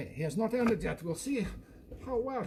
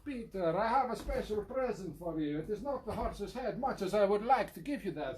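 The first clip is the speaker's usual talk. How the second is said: put-on Italian accent. Italian-accented host thanking a guest for a present, playful Italian accent. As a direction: speak English with a theatrical Italian accent.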